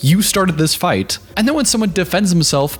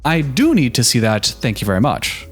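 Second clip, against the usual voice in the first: a little heated; 2 semitones lower than usual. Retold or imitated. Tim retorts that parenting is his business, mildly heated. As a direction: push back with a touch of indignation. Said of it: "gets uncharacteristically a little heated".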